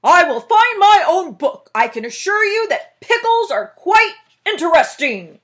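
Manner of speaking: loud, haughty boom; loud bear. Acted. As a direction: Bear insists on finding his own book, loud. Bear keeps booming.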